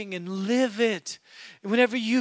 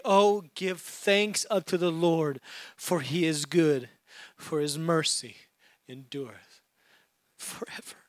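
fading to a whisper; 6 semitones lower, 6 dB quieter than usual. Acted. Pastor fading the psalm to a whisper to close. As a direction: lower and softer until whispered.

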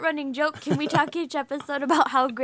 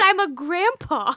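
imitating grandma voice; 5 semitones higher, 3 dB louder, slower than usual. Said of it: "I said grandma".

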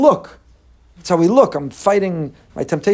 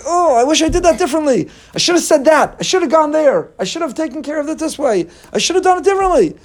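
higher, strained self-reproach; regretful inner voice; 9 semitones higher than usual. Retold or imitated. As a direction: whine through the regrets. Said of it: "something I say".

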